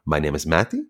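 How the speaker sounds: put-on a light, half-hearted German accent on "My name is Matty"; barely there mock German accent, playing Nightcrawler; terrible Nightcrawler accent. Host introducing himself, in a faint mock German accent. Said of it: "the terrible Nightcrawler accent is gone".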